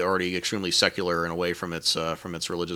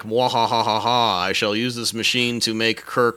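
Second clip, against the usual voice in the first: villainous gloating with a cackle; mad scientist; 3 semitones higher, 5 dB louder, slower than usual. Retold or imitated. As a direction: ham up the evil scientist. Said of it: "Doctor Adams storms in and is like".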